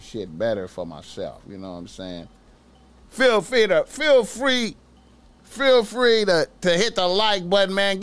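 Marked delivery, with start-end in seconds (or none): 3.1-8.0 high, loud pleading for likes; loud plea. Real, not acted. Begging viewers to like the video, high and loud. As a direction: beg the viewers loudly.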